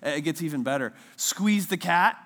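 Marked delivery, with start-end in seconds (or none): 1.2-2.2 very slow, loud, drawn-out storybook line; slow storybook read. Retold or imitated. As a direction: read like a solemn children's book. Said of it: "the book goes like something like this".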